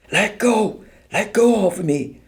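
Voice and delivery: high, frantic protest; terrified protest. A narrator's reading. Helen, terrified, protests as soldiers drag her. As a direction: fight them off in panic. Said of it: "Helen protested. She was terrified".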